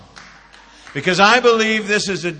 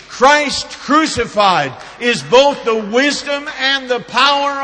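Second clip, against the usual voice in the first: raised, driving sermon voice; fervent preaching; 5 semitones higher, 5 dB louder than usual. Real, not acted. Preacher telling the church they're in great company, fervent preaching. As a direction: preach it out with emphatic peaks.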